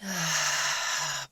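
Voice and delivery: long settling sigh; audible exhale. Shown as a demonstration. Meditation teacher opens the breathing practice, audible sigh. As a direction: let out a full, relaxed breath.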